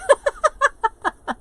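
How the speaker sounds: high, loud giggling burst; real, helpless high laugh; burst of laughter. Real, not acted. Laughing at a viewer's comment about accents, high burst of laughter.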